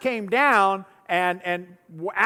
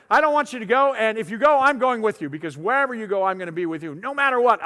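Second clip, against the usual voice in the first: earnest protest; 3 semitones higher, 4 dB louder than usual. Retold or imitated. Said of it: "Peter even says".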